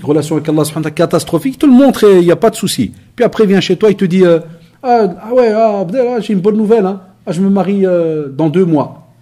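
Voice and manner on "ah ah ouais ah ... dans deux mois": higher, chirpy mock excitement, announcing good news; imitating excited friend. Friend announcing his marriage to the preacher, higher excited imitation. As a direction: play the friend bursting with his wedding news, voice raised.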